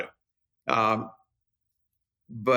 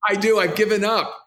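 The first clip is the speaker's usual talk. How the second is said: playful admission; 6 semitones higher, 4 dB louder than usual. Real, not acted.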